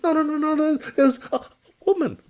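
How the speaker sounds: high, loud stammering terror; panicked stammer. Acted. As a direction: stumble over the words in fright. Panicked merchant.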